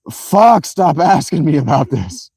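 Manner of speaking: exasperated. Retold or imitated. Acts out own exasperated outburst.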